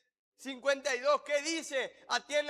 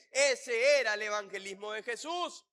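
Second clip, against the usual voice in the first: louder, forceful pulpit delivery; impassioned preaching; 2 semitones higher, 4 dB louder than usual. Real, not acted. Preacher challenging the church on what it is doing, impassioned preaching.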